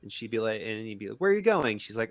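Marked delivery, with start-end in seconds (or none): 1.2-1.8 high-pitched imitation of a keen suitor; retold eager question. Suitor asks where she is headed, mock eager. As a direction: pipe up high, playfully eager.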